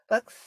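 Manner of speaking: "Books" with the tongue hitting the front of the palate; imitated speech quirk. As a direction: mimic her slight lisp on the k in "Books". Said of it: "It's her k sound".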